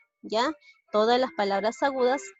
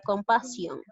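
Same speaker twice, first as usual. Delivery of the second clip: "compasión" with the stress off the final SIÓN; unaccented misreading. Shown as a demonstration. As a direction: read "compasión" as if written without accent. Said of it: "no lo estoy llegando a pronunciar tal y como es".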